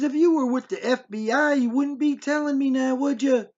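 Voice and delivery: imitated mother's high-pitched cross-examination; challenging. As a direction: press the point to expose a liar. Mother challenges supposed agent.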